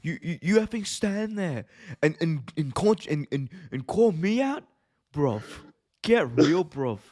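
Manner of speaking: sneering British promo, bruv; mock British callout. Ospreay voiced mocking Rollins' toy title, British accent.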